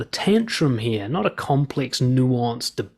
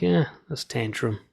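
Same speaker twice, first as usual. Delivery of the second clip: calm; 3 semitones lower, 4 dB quieter than usual. Shown as a demonstration. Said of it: "you're just calm".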